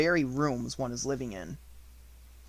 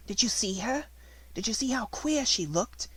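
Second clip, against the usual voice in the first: excited outburst; 9 semitones higher than usual. A narrator's reading. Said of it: "Jessie broke out".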